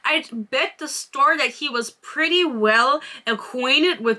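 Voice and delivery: measured, expressive reading aloud from a romance novel; story narration. A narrator's reading. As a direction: read the character description with deliberate phrasing. Reads book passage aloud.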